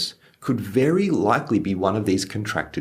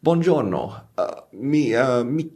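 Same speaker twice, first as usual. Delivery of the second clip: stressed; 4 semitones higher, slower than usual. Retold or imitated. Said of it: "I can come across as quite stressed".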